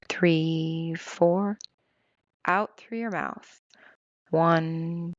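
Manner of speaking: soothing breathing-exercise guide; guided meditation. Acted. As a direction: lead the listener calmly through each breath.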